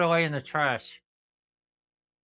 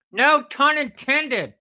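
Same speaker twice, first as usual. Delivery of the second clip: slow, high and loud; hammed-up slow delivery; slow punchline; 8 semitones higher, 6 dB louder, slower than usual. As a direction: draw the quip out. Repeated punchline quip.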